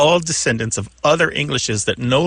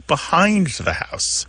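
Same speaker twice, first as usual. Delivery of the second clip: slow, higher example; 6 semitones higher, slower than usual. Shown as a demonstration. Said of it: "They're more likely to say".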